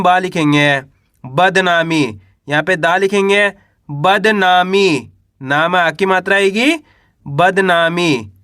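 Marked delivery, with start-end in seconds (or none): 3.9-5.1 बदनामी stretched very slowly, syllable by syllable; slow, drawn-out word. Shown as a demonstration. Teacher stretches बदनामी for pupils, very slow and drawn out. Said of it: "इस तरीके से आप शब्द का उच्चारण सुनोगे". 7.3-8.3 बदनामी stretched very slowly, syllable by syllable; slow, drawn-out word. Shown as a demonstration. Teacher stretches बदनामी for pupils, very slow and drawn out. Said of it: "इस तरीके से आप शब्द का उच्चारण सुनोगे".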